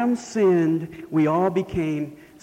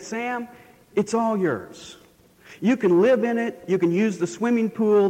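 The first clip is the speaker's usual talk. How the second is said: grand offer; 3 semitones higher than usual. Retold or imitated. Supervisor offering the mansion.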